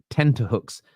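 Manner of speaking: "Tenterhooks" with a distinct middle T; correct word, tenter. Shown as a demonstration. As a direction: sound the T in "Tenterhooks", no D. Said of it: "T E N T".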